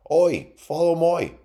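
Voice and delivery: loud, high, drawn-out rustic mole call. A narrator's reading. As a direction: holler like a country mole, slowly. Mole calls to Raft.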